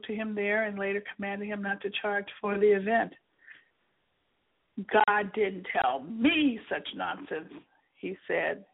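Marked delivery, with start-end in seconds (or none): 4.9-7.5 mocking. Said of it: "He mocked the way God told Keith".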